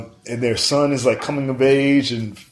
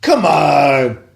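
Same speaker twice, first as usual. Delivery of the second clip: louder, higher exasperated complaint; 6 semitones higher, 5 dB louder than usual. Real, not acted. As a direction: demand the obvious from the film. Exasperated complaint about no sex scene.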